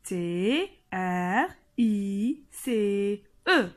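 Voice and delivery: T R I C E letter by letter, slow; spelled slowly. Shown as a demonstration. Teacher spelling the ending for pupils, slowly. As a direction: spell T R I C E out carefully. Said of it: "Comment j'écris tris".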